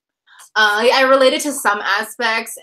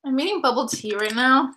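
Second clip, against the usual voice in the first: talking around a chewy mouthful; chewing while talking; 3 semitones higher than usual. Real, not acted. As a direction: speak while chewing bubble tea pearls. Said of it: "can't really talk while chewing bubbles".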